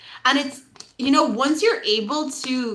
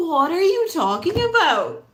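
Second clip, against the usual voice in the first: mock disbelief, pitched up; dumbfounded; 5 semitones higher than usual. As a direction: act baffled through a slight laugh. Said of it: "like, dumbfounded by these children".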